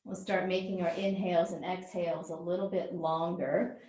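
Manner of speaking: calm yoga breathing guidance with long pauses; guided relaxation. Real, not acted. Yoga teacher settling the class into breath, calm guided relaxation. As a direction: ease them into breathing, leaving space between phrases.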